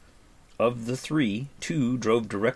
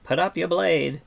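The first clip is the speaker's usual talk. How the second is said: higher, louder bard's order; Fluter the bard, commanding; 9 semitones higher, 5 dB louder than usual. Acted. Bard orders companions before the fight, commanding. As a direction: give the order in a raised bardic voice.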